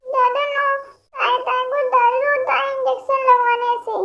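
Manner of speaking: put-on a toddler pleading against the needle; dreamy child. Childlike patient forgets name, fears injection.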